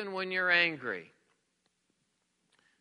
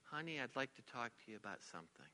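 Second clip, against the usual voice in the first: very soft, low, hushed request; soft low near-whisper; whispering to spouse; 8 semitones lower, 16 dB quieter than usual. Shown as a demonstration. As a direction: murmur it privately to your spouse. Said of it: "try whispering to your spouse".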